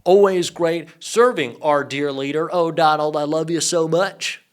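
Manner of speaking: slow, gushing mock devotion; hammed-up toady sucking up to the boss; mock-fawning. Mocks senator fawning over Trump.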